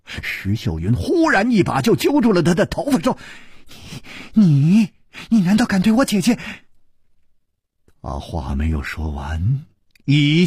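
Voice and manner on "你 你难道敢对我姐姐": fast, angry demand; angry accusation. A narrator's reading. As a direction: hurl it at him fast. Grabs his hair in anger.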